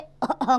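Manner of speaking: a short cough; coughing fit. Acted. Sick father coughing after shouting, short cough. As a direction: break into a cough. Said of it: "करके खांसने लगता है".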